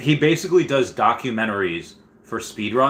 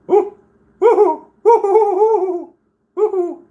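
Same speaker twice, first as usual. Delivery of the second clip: very high, loud woo-hoos with laughter; real cheering; 7 dB louder, slower than usual. Real, not acted. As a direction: whoop like the crowd at a show. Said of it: "cheering at video".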